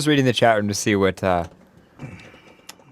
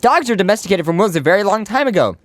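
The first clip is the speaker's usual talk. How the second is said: helium voice; 5 semitones higher than usual. Real, not acted. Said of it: "my voice is still a little higher up".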